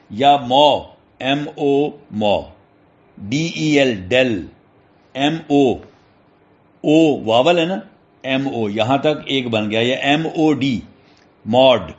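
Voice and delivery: normal talking voice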